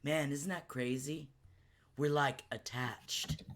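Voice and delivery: slow, dazed stoned musing. Retold or imitated. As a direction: drift through it, high. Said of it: "I've been too high at points".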